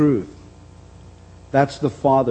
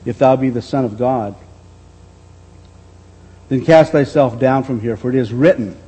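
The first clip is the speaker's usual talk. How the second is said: devil's challenge pressed on, a bit louder; mock Satan; 4 dB louder than usual. The devil daring Jesus to jump, rising insistence. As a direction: push the dare harder. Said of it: "bringing question to what God has said".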